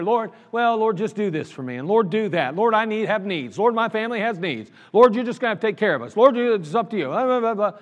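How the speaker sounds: imitating casual prayer, trailing into blah-blah; offhand prayer. Preacher mimicking people who just mention needs in prayer, offhand. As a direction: rattle off a careless mock prayer. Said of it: "kind of mention it in prayer".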